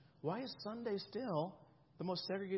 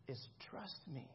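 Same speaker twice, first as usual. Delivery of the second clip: much softer and slow, pleading "trust me"; soft plea; 5 semitones lower, 11 dB quieter, slower than usual. Acted. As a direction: sink low and slow into "trust me". Jesus voiced, inviting trust.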